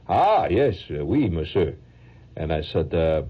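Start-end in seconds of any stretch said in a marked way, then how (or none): 0.1-1.8 lightly put-on French accent; phony French accent. Painter playing French to a tourist, phony French accent. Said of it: "keep up with the French accent".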